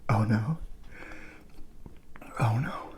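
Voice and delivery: whispered gasps through spice; breathy whimper, mouth on fire; mouth burning from spicy food. Real, not acted.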